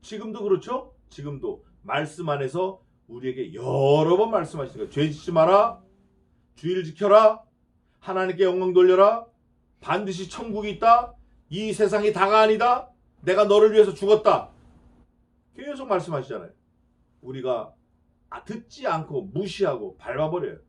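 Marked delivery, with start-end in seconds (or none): 4.9-14.5 commanding preacher voice. Acted. Preacher voicing God's commands.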